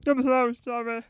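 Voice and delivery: high, loud mortified apology. Retold or imitated. Apologising to John Noakes, high and mortified. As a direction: gush out the apology in embarrassment. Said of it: "In that voice as well".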